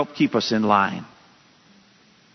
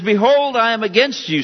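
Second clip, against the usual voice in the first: raised, higher proclamation of judgment; voice of the Lord; 8 semitones higher, 3 dB louder than usual. Acted. Preacher voicing the Lord against Nineveh, raised proclamation. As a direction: declare it high and loud as God. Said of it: "says the Lord of hosts".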